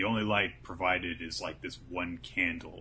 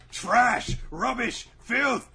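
higher, louder, building to a shriek; climbing mock-villain rant, much higher and louder; rising rant; 8 dB louder, much slower than usual. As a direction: drive each word harder, up into a cry. Voicing Azami's cruel lesson.

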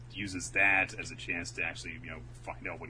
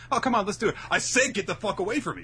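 high, loud mock yell; mock shout; 8 dB louder, faster than usual. Acted quarrel, shouted refusal.

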